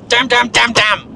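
real frustration spilling out; annoyed self-scolding; frustrated damns. Real, not acted. Frustrated at forgetting thought.

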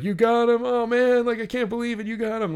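high-pitched, excited retelling of a friend's disbelief; imitating amazed friend. Chris congratulates him on the autograph, amazed and high-pitched. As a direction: act out an astonished friend, voice pushed way up. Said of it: "And Chris was like".

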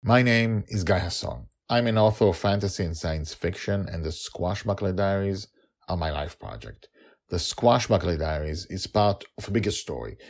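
measured, presentational read, slightly lifted in pitch; scripted show introduction. Acted. Author introduces the series to new listeners, scripted presenter read.

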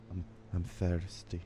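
drinking near the mic; while sipping a drink. Real, not acted. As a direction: talk through a sip of water. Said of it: "moved the mic away too late".

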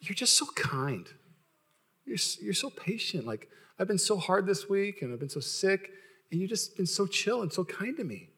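soft, slow heartfelt praise; quietly sincere, unhurried; tender praise. Retold or imitated. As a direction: imitate a wife softly gushing. Wife's tender words retold.

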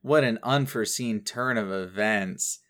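very flat, understated delivery; deadpan quote. Retold or imitated. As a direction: recite it with mock-surprise words and no surprise. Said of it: "who very flatly says".

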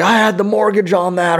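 retelling a stranger in the sports book; mock fan yell. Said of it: "yelling things like".

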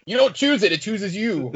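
high mock-mystical pronouncement; mystical sage voice. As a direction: intone it like a wise sage. Quoting mystical movie line.

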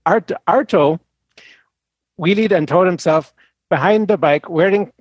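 put-on reading in a Swedish accent. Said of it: "the horrible Swedish accent".

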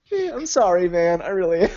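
grinning through a fake apology; sorry, but clearly smiling. Real, not acted. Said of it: "you sound very sorry".

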